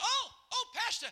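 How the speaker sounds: high, ecstatic exclamation; imitated rapture. Dying woman sees angels coming, imitated rapture.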